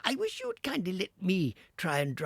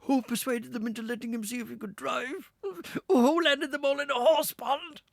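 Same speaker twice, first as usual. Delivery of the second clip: gloating Toad; 14 semitones higher, 7 dB louder than usual. Acted. Toad boasting to himself.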